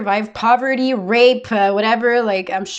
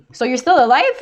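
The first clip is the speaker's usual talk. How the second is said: mock amazed friend; 4 semitones higher, 4 dB louder than usual. Mocking people who exaggerate.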